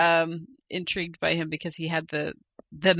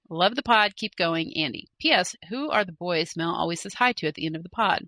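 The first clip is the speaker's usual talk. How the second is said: letter reading. Acted. Host reading a viewer's email aloud, measured read. Reads second listener email.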